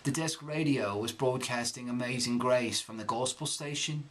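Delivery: reading in Cockney accent. Shown as a demonstration. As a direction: read the letter in Cockney. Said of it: "I'm gonna read this text".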